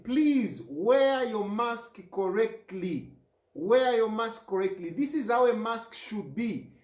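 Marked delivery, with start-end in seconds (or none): 0.0-4.9 slow, deliberate emphasis on each word; emphasizing. Shown as a demonstration. Mayor candidate urging voters to wear masks, slow and emphatic. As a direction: lean hard on please and correctly, unhurried. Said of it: "I am emphasizing".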